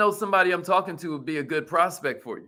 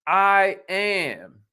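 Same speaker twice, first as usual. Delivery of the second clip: firm, declarative I am; say it like you mean it. Shown as a demonstration. Coach leading the audience in an affirmation, firmly. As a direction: own the words I am. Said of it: "Say it like you mean it".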